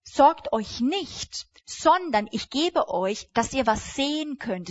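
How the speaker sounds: drawn-out, slow promise; preacher voicing Jesus to worried believers, slow and giving. Shown as a demonstration. Offer it slowly, like a gift. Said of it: "sondern er sagt".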